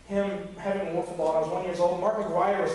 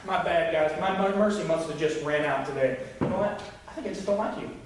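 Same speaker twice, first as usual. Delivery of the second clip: sarcastic God. Retold or imitated. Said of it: "Like he's saying".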